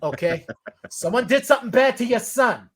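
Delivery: lightly put-on Boston accent; Boston-accented movie tough talk; Matt Damon. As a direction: play a Boston local in dialogue. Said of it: "Matt Damon playing rugby against the firefighters".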